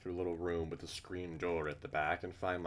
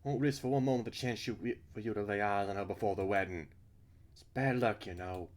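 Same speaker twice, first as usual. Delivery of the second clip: put-on louder, higher, insistent older-matron role; Missus Burns; 3 semitones higher, 6 dB louder than usual. Missus Burns keeping Al from the bride before the wedding, insistent. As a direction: firmly forbid it in a raised voice. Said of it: "I'm fucking her voice up".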